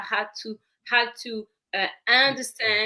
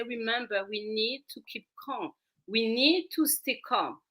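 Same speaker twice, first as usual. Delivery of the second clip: soft, steady demonstration of calm; quiet, even reassurance; 5 dB quieter than usual. Shown as a demonstration. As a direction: softly settle a child mid-tantrum. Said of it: "you need to keep a calm voice".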